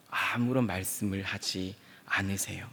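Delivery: hushed unvoiced whisper. Preacher whispers that God stays silent. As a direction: let the silence sink in.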